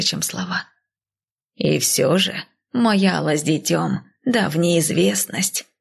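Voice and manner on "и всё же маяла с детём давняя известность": put-on slow elderly voice, mildly worried; lightly voiced old woman; old nanny. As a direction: fret slowly as the old nanny.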